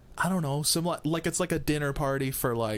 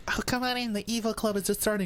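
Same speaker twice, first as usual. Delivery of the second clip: welcoming host voice; 7 semitones higher than usual. Retold or imitated. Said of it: "and they go".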